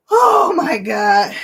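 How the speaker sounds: slow, crying exclamation; tearful. Real, not acted. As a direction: wail it slowly, really overwhelmed. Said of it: "let me fan my eyes".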